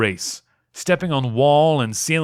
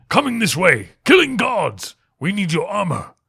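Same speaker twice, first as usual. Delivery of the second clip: higher, breathless urgent warning; urgent alarm; 8 semitones higher, 3 dB louder than usual. Acted. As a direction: rush the news out in alarm.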